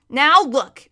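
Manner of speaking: brisk, forceful interruption; interrupting. A narrator's reading. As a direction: break in on the boy. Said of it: "the horse interrupted him".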